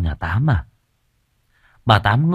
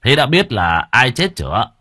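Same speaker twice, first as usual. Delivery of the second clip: forced calm; 2 semitones higher than usual. Acted. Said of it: "cố dùng giọng bình tĩnh".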